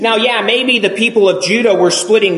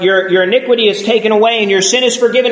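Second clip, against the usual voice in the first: eager rush; 3 semitones higher, much faster than usual. Retold or imitated. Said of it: "we focus in on the last part".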